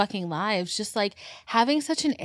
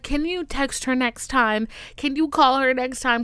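exasperated cop; 4 semitones higher, 3 dB louder than usual. Retold or imitated. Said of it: "he's like".

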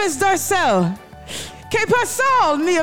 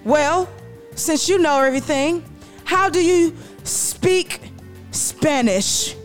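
teasing Dorcel; 5 semitones higher, slower than usual. Acted. Dorcel teasing Dorothy back.

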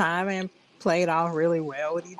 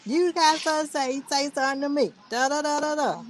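high mock-redneck challenge; redneck white guy; 8 semitones higher than usual. Redneck homeowner challenges the agents, high mock-redneck voice. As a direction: play a confrontational redneck in a high voice. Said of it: "like he's some redneck white guy".

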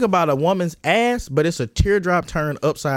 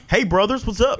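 lightly voiced dorky white-kid greeting; a hint of an awkward white kid saying hello; 2 semitones higher than usual. Walking up to some black dudes, lightly voiced white-kid greeting. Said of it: "just walk around talking like that".

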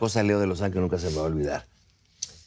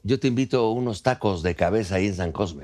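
laughing pitch; 2 semitones higher than usual. Real, not acted. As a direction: sell it like an ad, laughing.

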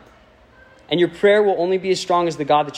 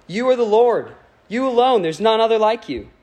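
higher, ringing out in praise; fervent praise; 6 semitones higher than usual. Acted. Preacher reading Nehemiah's prayer aloud, fervent and rising. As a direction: lift it up to God with awe.

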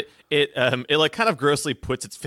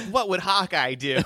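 laughing; 7 semitones higher than usual. Pretend. Kid pondering, laughing.

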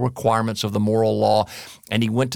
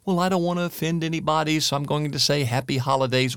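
imitating a worried, careful speaker, higher and fast; quick, higher put-on voice of someone afraid to offend; mock cautious person; 5 semitones higher, faster than usual. Pastor mimicking people who say Happy Holidays, quick and higher. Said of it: "some people are going".

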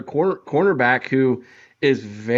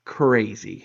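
"crazy" set apart after a pause; a deliberate, stretched-out "crazy"; emphatic "crazy"; 4 semitones lower than usual. Shown as a demonstration. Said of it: "I emphasize the word crazy".

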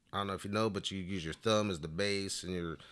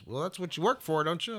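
1 Willie's question; 9 semitones higher than usual. Retold or imitated. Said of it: "he goes".

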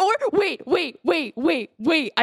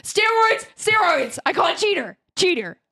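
heckling; 7 semitones higher than usual. Acted. Player heckles potion drinker.

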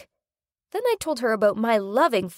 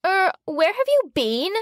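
annoyed; 7 semitones higher than usual. Acted. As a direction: snap it at her, annoyed. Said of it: "in an annoyed tone said".

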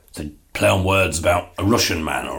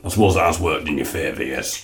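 Ray's voice; 4 semitones lower than usual. Acted. Ray answers David.

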